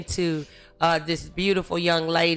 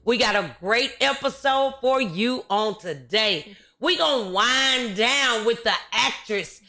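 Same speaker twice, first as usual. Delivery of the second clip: show host intro; 3 semitones higher than usual. Acted. Host greeting listeners and presenting today's guest, show intro.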